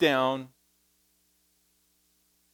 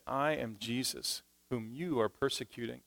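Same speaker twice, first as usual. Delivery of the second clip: hushed voice of Jesus; 3 semitones lower, 11 dB quieter than usual. Retold or imitated. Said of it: "He said".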